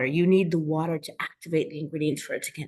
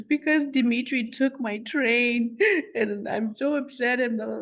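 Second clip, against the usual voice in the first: put-on higher, childlike whiny telling; upset little boy; 6 semitones higher than usual. Boy telling his father about the stolen train, whiny child voice. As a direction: play a six-year-old complaining.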